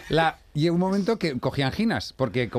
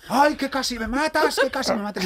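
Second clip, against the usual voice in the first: hysterical lady; 12 semitones higher than usual. Retold or imitated. Lady accuses the driver who nearly hit her, high mock hysteria. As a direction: wail it like an outraged lady, hammed-up. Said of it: "Y una señora".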